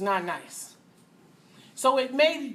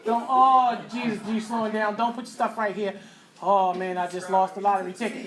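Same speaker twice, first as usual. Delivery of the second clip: mock prayer. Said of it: "you think".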